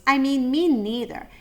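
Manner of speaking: tiny squeaky mouse voice; a small mouse piping up; little voice. A narrator's reading. Mouse pipes up to the boars, small and high.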